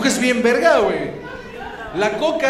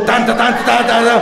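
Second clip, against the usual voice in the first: imitating the beat. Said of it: "Al ritmo de un dúo de música electrónica".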